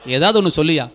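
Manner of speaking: quick, mildly irritated retort; imitated anger. Preacher voicing the man challenging the violinist, mock-angry. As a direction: act out a man losing patience. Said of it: "இவனுக்கு வந்துச்சு கோபம்".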